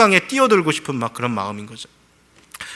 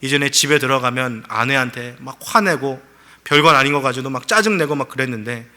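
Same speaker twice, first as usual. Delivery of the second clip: ordinary delivery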